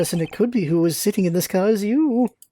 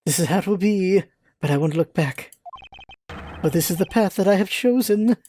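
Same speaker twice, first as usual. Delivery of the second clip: put-on gruff old man. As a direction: brush him off. Voicing the defeated villain.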